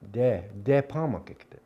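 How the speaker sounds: De pamakikte starting with a d; Dakota pronunciation. Shown as a demonstration. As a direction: open De pamakikte on a firm d. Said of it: "Three different ways of saying".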